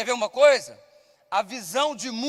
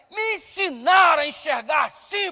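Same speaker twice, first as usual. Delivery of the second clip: preached punch line; 4 semitones higher, 3 dB louder than usual. Real, not acted. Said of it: "Por que que eu acho".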